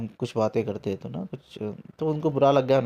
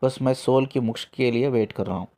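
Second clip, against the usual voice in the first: put-on grieving old man; 4 semitones lower, 3 dB quieter than usual. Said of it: "तो वो रो, रो पड़े".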